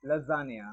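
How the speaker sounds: lasagna slowly as la-ZAN-ya; teacher giving the right lasagna; correct pronunciation. Shown as a demonstration. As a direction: give the real lasagna, drawn out. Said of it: "इसका actual pronunciation है".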